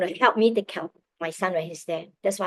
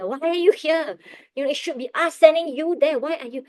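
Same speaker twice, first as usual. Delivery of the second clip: imitating a puzzled official, pitched up high; incredulous questioning; 7 semitones higher, 4 dB louder than usual. Immigration officers question why the family came, incredulous. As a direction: protest in a high, disbelieving voice, as if quoting officials.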